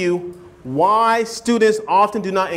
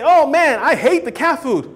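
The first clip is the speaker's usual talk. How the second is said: blunt complaint; 5 semitones higher than usual. Retold or imitated. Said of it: "don't talk like that".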